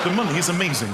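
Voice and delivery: one continuous phrase; flowing read, no pauses; reading a text back. Acted. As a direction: read it straight through. Reads the finished text back in full.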